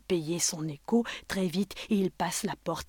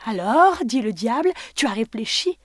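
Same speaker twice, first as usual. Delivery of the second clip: devil voice; 3 semitones higher, 6 dB louder than usual. Acted. Devil questions Job.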